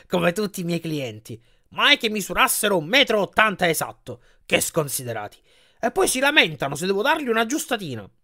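lightly voiced salesman complaining; giant bed salesman, grumbling. Giant salesman complains to Percy about his customers, lightly voiced.

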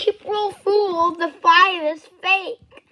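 loud, slow April Fool, the five is fake; spring the joke on them; gleeful reveal. Toy reveals the fake five, loud gleeful reveal.

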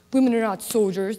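lofty, condescending mock voice. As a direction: look down your nose as you say it. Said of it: "in that mightier than thou voice".

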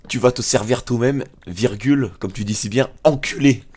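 mock-forceful manly retort, punching the final insult; voix virile. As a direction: put on a big virile voice. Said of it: "une bo-, bonne voix virile là".

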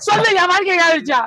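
tearful shouted demand; distraught demand. Acted. Husband pleading with wife, tearful shout. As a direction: cry out demanding the truth.

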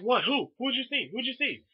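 high, rapid-fire best-friend questions; excited eager questioning. Retold or imitated. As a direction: imitate a friend dying to know, pitched high. Best friend's excited reply, retold.

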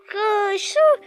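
high, startled what then a slow laugh; shocked squeal into a laugh; surprised yelp. Real, not acted. Surprised by enemy.

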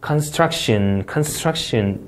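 construction, leaning on the middle syllable STRUC; stressed syllable in construction. Shown as a demonstration. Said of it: "마찬가지로 이음절 강세가 되겠습니다".

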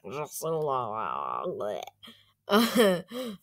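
halting mock Russian echo, broken midway; Russian accent imitation. Vlogger echoing a translator voice, halting Russian accent. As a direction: copy the Russian voice, pausing inside the name.

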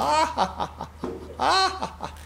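imitated high-pitched cackle in repeated bursts; mechanical clown laugh. Retelling a childhood memory of a circus clown, mimicked mechanical laugh. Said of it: "laughed and laughed and laughed".

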